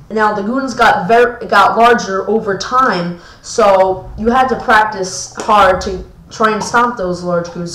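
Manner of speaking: halting, stumbling over the words; tripping over the words, restarting; stuttering. Real, not acted. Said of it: "Sorry if I'm stuttering".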